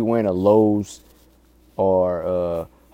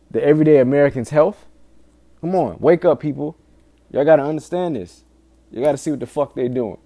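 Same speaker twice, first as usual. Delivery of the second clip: alarmist doom warning; 3 semitones higher than usual. Real, not acted. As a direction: press hard, shake the listeners awake. Urging listeners to wake up.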